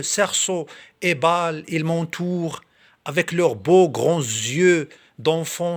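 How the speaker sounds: measured verse reading, slightly lifted above normal talk; poem recitation. Acted. Reading Victor Hugo's poem to video viewers, in recitation voice. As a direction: recite it line by line, pausing between phrases.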